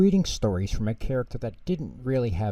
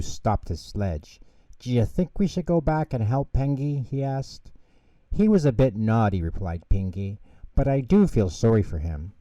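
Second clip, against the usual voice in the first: put-on lively children's storybook narration; reading to children. A narrator's reading. Narrator reading Pingu to children, lively storytelling. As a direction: read it like a bedtime story for kids.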